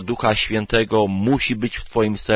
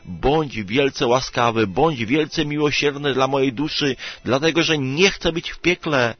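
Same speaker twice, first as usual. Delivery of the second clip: higher-pitched, earnest plea to God; raised-pitch model prayer for mercy; pleading prayer; 5 semitones higher than usual. Acted. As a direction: pray it aloud, voice lifted in entreaty. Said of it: "módl się do Boga i mów tak".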